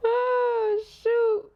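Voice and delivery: shocked high exclamation; high surprised cry. Real, not acted. Reacts to spirit message.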